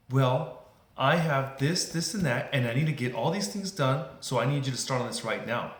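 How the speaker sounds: demanding customer. Acted. Customer lists everything the clerk must start on, insistent. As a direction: pile up the demands as a pressed customer.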